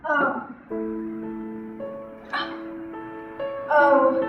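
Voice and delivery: fading, breathy dying words; faint deathbed whisper. Acted. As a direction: barely get the words out, dying. Dying Hamlet's last words.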